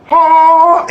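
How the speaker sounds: high, loud, slow taunting voice; sing-song tempting voice calling out; mystery voice. Retold or imitated. Voice in his head tempting him to eat cake. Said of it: "I heard a voice and it went".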